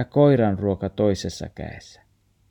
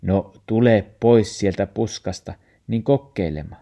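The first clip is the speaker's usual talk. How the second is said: coaxing; 4 dB louder than usual. Acted. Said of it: "murfaari viekottelee".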